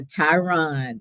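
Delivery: Tyron said carefully as tie-RON; deliberate, correct Tyron; careful name pronunciation. Real, not acted. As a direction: land clearly on RON in Tyron. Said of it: "I really tried to remember".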